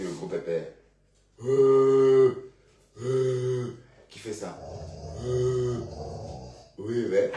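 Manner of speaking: talking to a pet. Real, not acted. Coaxing the dog Dexter.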